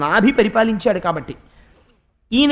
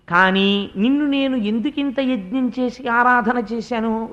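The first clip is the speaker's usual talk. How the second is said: ordinary talk, nothing marked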